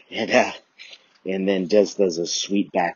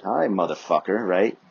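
mock sassy teacher; 3 semitones higher, 6 dB louder than usual. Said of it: "But then she says".

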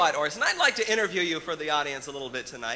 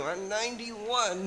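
slow, lightly voiced old man; old puppet character; 3 semitones higher, slower than usual. Puppet telling the interviewer his age, old-man voice. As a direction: draw the age out like an elderly puppet. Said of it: "You're very old".

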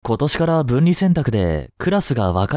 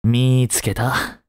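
relieved and gentle; much slower than usual. Acted. Teacher finds the missing student, slow relief. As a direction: breathe out the discovery gently.

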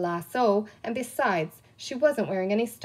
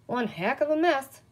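lightly voiced muttering sheriff; muttered; 4 semitones higher than usual. A narrator's reading. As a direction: mutter it under the breath. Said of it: "muttered a voice".

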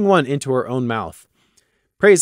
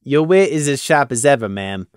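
deadpan. Acted. Gloom answers the mayor in flat deadpan. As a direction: say it with no expression. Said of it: "Gloom deadpanned".

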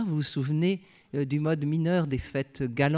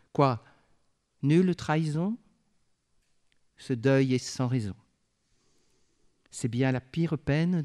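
poem recital. Acted. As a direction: let each line of verse breathe and hang. Recites Verlaine's Ariette trois.

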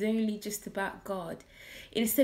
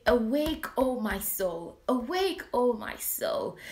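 rousing call; 2 semitones higher than usual. Retold or imitated. David's psalm, called out.

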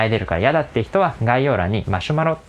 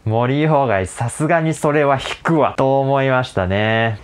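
mock disgust; 3 semitones higher, 3 dB louder, slower than usual. Voicing listeners' disgust.

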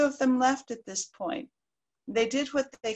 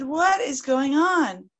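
stern wolf; 4 semitones higher, 5 dB louder, slower than usual. Acted. Wolf demands answers.

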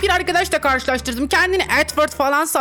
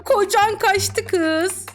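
slow mocking singsong; 5 semitones higher, much slower than usual. Teasing chat line singsong.

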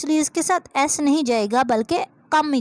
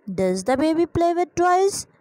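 slow dictation; 4 semitones higher, much slower than usual. Shown as a demonstration. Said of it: "अब baby है तो does आएगा".

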